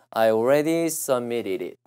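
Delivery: "submitted it" run together with flaps; changed linked sound. Shown as a demonstration. Teacher applying the sound change to "submitted it", linked. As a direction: say "submitted it" as "suh-mi-ri-rit". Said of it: "이렇게 하면 소리가".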